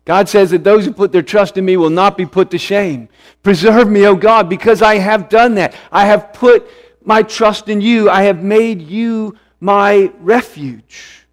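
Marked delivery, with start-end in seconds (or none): 3.4-11.3 fervent plea. Acted. Voicing David's prayer fervently.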